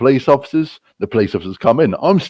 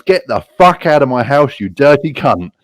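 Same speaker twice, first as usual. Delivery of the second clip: raised, higher-pitched mock outrage; angry eviction; 5 semitones higher, 4 dB louder than usual. Angry woman throws him out of her house, mock outrage. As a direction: act out an angry order to leave.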